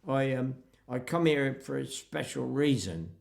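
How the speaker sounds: West Country countryman declining politely; imitated West Country speaker; West Country accent. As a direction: put on a rustic West Country burr. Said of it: "Afraid I'm using a West Country accent".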